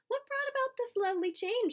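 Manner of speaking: high, wondering question; pleased teacher asking the class, delighted. A narrator's reading. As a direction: ask it with delight.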